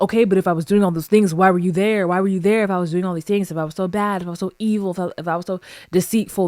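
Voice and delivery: quick, insistent retold argument; defensive arguing. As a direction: fire off the questions as his mock self-defense. Retells his defensive argument.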